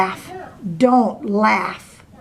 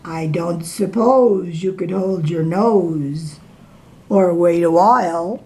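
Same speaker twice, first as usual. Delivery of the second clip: sad crocodile; 4 semitones lower than usual. Acted. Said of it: "asked the crocodile with a sad little smile".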